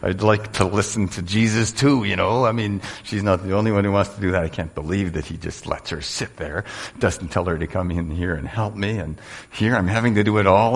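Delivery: lightly voiced irritated Martha; frustrated Martha. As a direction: mutter her resentment while kneading. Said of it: "imagine her kneading the dough and thinking".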